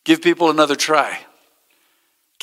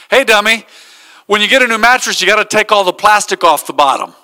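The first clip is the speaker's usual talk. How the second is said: higher, louder mock-condescending lady; 5 semitones higher, 4 dB louder than usual. Customer service lady scolding a careless customer, mock condescending. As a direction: talk down to him like he's a dummy. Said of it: "I could just hear it in the lady's voice".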